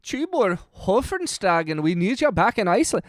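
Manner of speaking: attempted Icelandic accent. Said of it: "I cannot do an Icelandic accent".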